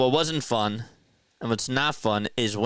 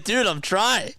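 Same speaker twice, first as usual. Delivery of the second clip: much higher, strained pleading voice; whiny younger self; 13 semitones higher than usual. Retold or imitated. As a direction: squeak out helpless excuses while slipping off. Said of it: "And I'm like".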